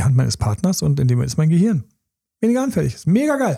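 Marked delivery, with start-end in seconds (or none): 2.4-3.6 excited. Real, not acted. Enthusing about holding hands.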